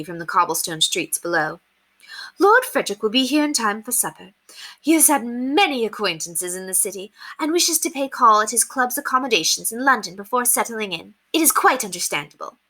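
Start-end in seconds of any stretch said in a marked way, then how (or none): 2.4-12.6 forced merriness. Acted. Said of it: "merry ... trying not to cry".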